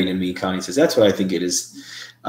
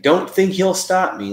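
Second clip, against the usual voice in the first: much higher mock of the heard voice; high imitation; 11 semitones higher than usual. Re-imitating the spirit voice for the group, pitched high. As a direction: pitch it way up like a thin voice on tape.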